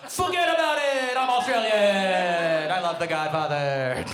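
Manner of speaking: put-on loud mobster-style take on an Australian accent; botched Australian accent. Comic retrying the Australian woman, in a wildly wrong Australian accent. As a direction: attempt Australian and land in Godfather Italian-American. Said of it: "let me take one more shot at it".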